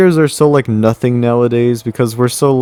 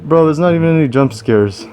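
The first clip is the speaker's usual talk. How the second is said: indignant; 4 semitones higher than usual. Real, not acted. Indignant outburst at game.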